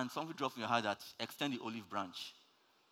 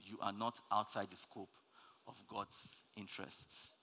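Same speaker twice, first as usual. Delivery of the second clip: fades from soft speech down to a near whisper; fading to a whisper; 2 semitones lower, 9 dB quieter than usual. Shown as a demonstration. Preacher to congregation, fading into a whisper. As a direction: let the point sink in, dropping to a whisper. Point repeated, fading away.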